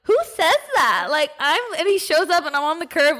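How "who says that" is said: higher, drawn-out mock indignation; upset. Upset caller reacting to her partner, high retold indignation. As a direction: retell it in slow, offended disbelief. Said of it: "I was so upset. I'm like".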